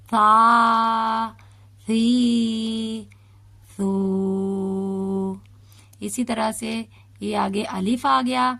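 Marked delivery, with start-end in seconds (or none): 0.1-5.3 سا, سی, سو said softly with the tongue between the teeth; soft tha sounds. Shown as a demonstration. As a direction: lisp each syllable gently. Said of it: "سا کو ہم بالکل نرمی سے پڑھیں گے". (نرمی سے سا سی سو)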